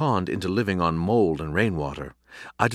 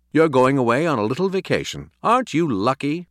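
higher, louder upbeat sales pitch; cheery coaxing; 6 semitones higher, 5 dB louder than usual. A narrator's reading. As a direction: sell it brightly to a dog. Owner coaxing dog, a con job.

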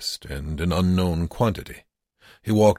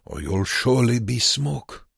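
warning; 7 semitones higher than usual. A narrator's reading. Wernicke warns Joseph.

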